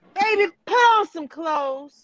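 high, loud hollering yell. Retelling yelling out a car window at a passing girl: retelling a yell out the window. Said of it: "And I yelled out the window".

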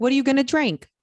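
put-on English accent, high and loud. Retelling what the woman he was dating asked on meeting, in an english accent. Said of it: "Like in an English accent".

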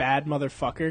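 normal talking voice

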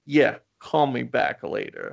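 super sarcastic tone. Retelling a phone call where she brushes off her nephew: imitating a super sarcastic reply. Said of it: "being, like, real asshole".

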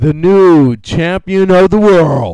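call-out announcer voice. Taking a turn in a contest over who has the best call-out announcer voice. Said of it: "call-out announcer voice".

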